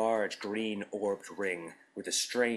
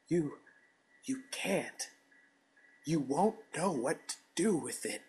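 stuttering; 9 semitones higher than usual. A narrator's reading. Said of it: "I stuttered".

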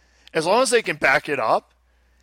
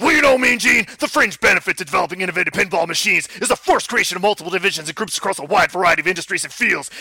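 gruff pro wrestler cutting a promo; 2 semitones higher than usual. Acted. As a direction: read it like a wrestling promo, brother. Wrestler promo read continues.

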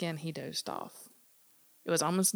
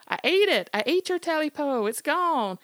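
loud high panicked scream; yelled; 10 semitones higher, 8 dB louder than usual. Acted. Smitty screams at the creature on his chest, loud panicked scream. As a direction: scream the confession out. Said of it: "Smitty yelled".

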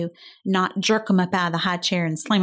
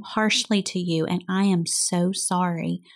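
put-on gentle apology to toddler. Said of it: "gotten my little toddler's face and said".

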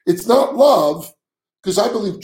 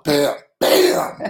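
mock bam; 3 semitones lower than usual. Playful sound effect after quip.

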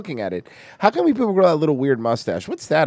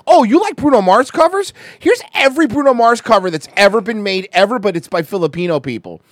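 eager, mock-salesman pitch, higher and louder; voicing the algorithm; 3 semitones higher, 5 dB louder than usual. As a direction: play the pushy algorithm offering more. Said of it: "the algorithm's like".

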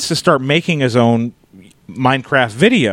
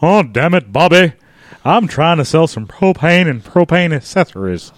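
lightly voiced exasperated cartoon dad; Hank Hill. Dad scolding Bobby while selling propane, restrained exasperated voice. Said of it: "Dueling Hank Hills".

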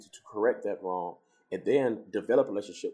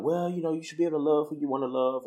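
lightly voiced coworker, higher pitch; imitated coworker; 6 semitones higher than usual. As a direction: mimic a coworker's opinion in a raised pitch. Acting out coworker's opinion.

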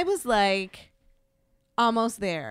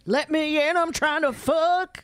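mock shout; 8 semitones higher than usual. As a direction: yell it like you're locked out. Mock demand at the door.

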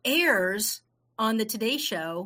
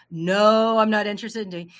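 emphatic refusal; 4 dB louder than usual. Retold or imitated. Refusing the Shark Tank suggestion, emphatic. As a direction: turn the friend down firmly.

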